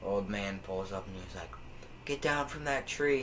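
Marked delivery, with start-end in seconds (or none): 2.1-3.2 mild mock yell, raised pitch; retold yell. Old man yelling at kids in a tree, higher mock yell. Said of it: "he yells at me and my friends".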